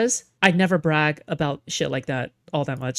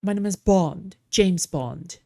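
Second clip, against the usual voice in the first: put-on British accent; slower than usual. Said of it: "how do you do a British accent?".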